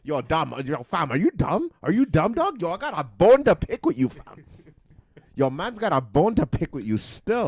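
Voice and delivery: loud, high Toronto slang accent. Shown as a demonstration. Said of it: "I'm gonna say it in a Toronto accent".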